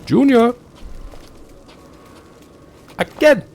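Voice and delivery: high, loud coach's call; Cool Runnings shout. Retold or imitated. Quoting Cool Runnings to get in the accent, loud shout. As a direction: bellow like a bobsled coach. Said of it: "Just think Cool Runnings".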